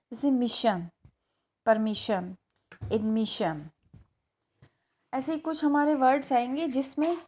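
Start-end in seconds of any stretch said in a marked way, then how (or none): 0.1-3.7 मिशन, परमिशन, एडमिशन said with a clear "shan" ending; shun ending. Shown as a demonstration. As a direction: end each word on "शन". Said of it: "ये आपकी शन पे जाएगी". ("शन" की ध्वनि के साथ)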